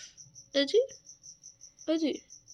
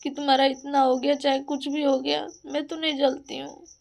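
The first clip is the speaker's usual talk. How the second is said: raised voice, scolding the jealous ones; heated rant. Real, not acted. Scolding jealous neighbours, heated and raised. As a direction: tell them off, voice up and pressing. Ranting at people who envy her.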